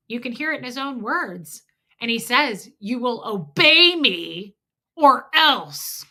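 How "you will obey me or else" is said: menacing quote. Retold or imitated. Quoting husband's threat.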